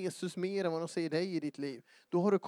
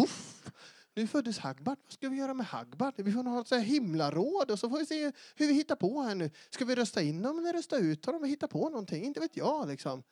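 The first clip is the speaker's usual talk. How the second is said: higher-pitched, hammed-up bewilderment; mock flustered dithering; 5 semitones higher than usual. Preacher parodying a God without a plan, mock flustered. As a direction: play a clueless planner at a loss. Voices God improvising at a birth.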